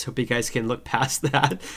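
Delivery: stuffy nose, nasal cold voice. Real, not acted. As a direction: talk through a blocked nose. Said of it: "apologize for my nasally voice".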